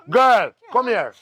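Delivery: high-pitched, pressing command; urgent alarm. Acted. Ordering the girl off to safety, alarmed. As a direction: order it with panic rising.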